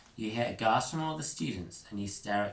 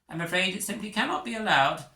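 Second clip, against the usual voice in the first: high, louder firm refusal; prim insistence; 10 semitones higher, 6 dB louder, faster than usual. Acted. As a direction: put your foot down primly. Prongle insists.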